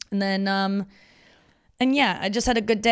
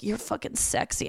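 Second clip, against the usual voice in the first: mock sultry whisper; 4 semitones higher, 5 dB quieter than usual. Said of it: "when people are like".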